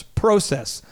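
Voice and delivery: "process" with a long o, proh-cess; Canadian process. Shown as a demonstration. Host joking to Canadian franchise owners, "process" as proh-cess. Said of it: "Or as the Canadians say".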